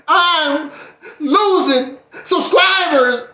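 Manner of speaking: slow, half-laughing fake cry; mock sob. Vlogger hamming up grief over subscribers. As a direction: whimper it, playing it up.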